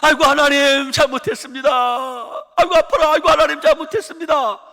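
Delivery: high, loud pleading wail; mock pained cry. Patient on the emergency cart begging God, imitated loud wail. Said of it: "이렇게 소리 질러요".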